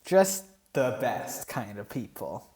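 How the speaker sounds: slow, low deadpan jab; dry sarcasm. Acted. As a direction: drawl the fake praise.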